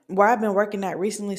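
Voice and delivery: talking with the hiccups; hiccupping mid-sentence. Real, not acted. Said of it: "I got the hiccups".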